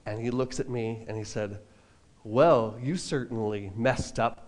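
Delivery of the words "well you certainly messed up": mock calm. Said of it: "But he didn't say "messed up"... didn't say it calm".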